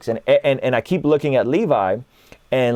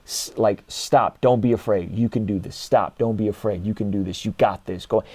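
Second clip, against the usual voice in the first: intense encouragement; 3 semitones lower, 3 dB quieter than usual. Retold or imitated. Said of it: "really intense moments with him".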